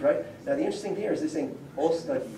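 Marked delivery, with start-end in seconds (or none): 1.8-2.3 "Ostavi" with two separate stresses; double stress. Shown as a demonstration. Lecturer showing students an old command form, "Ostavi" double-stressed. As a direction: give "Ostavi" two beats, one at each end. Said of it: "with two stresses".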